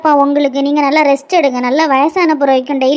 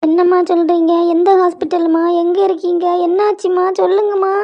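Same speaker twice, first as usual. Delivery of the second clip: anxious, rising urgency in quick questions; alarmed daughter; 3 semitones higher than usual. Acted. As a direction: plead worriedly for news. Daughter hears father is hospitalised. (பதற்றத்துடன் கேட்கும் மகள்)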